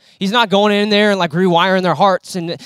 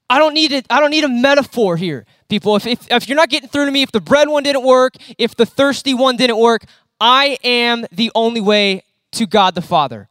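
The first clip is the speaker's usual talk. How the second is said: raised, higher, insistent declaration; preacher voicing Jesus telling people straight; bold Jesus; 4 semitones higher than usual. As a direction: lay it down plainly, no metaphors.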